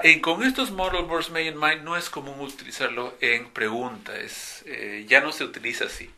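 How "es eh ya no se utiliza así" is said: ordinary delivery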